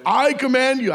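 mock-solemn command, pitched high. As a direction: put on a grave, commanding announcement. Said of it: "got all sober and went".

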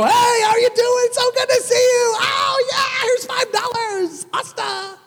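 high, loud, breezy hurried greeting; mock overly chipper brush-off. Preacher mimicking a careless friend, high and loud. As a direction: toss them a quick cheery hello and leave. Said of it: "and you go".

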